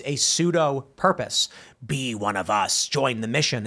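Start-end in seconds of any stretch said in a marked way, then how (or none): 1.8-3.6 mock cult recruiter. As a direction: lightly imitate a cult luring someone in. Voicing the cult's recruiting pitch.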